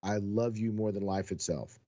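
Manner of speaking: a gentle, heartfelt declaration; quiet, loving confession to his wife; soft and sincere. Shown as a demonstration. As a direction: say it tenderly, meaning every word. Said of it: "softly grab her face and look at her and tell her".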